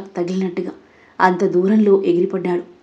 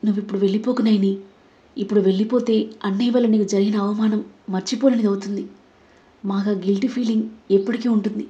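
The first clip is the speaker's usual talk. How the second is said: tearful pleading; 3 dB quieter, faster than usual. Acted. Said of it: "కన్నీళ్లతో ప్రాధేయపడింది".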